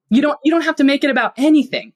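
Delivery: normal talking voice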